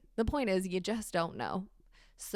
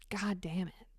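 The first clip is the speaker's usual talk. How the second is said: under her breath; 4 dB quieter than usual. Real, not acted.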